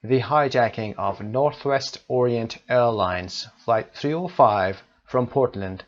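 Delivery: reading the passage slowly and clearly; English teacher reading a passage at dictation pace; slow text reading. Shown as a demonstration. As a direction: read the text aloud for the class. Teacher reads the text aloud slowly.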